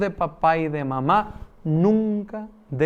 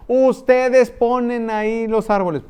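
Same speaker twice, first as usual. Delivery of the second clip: stern order; 6 semitones higher, 6 dB louder than usual. Retold or imitated. Stern seminary formador giving orders.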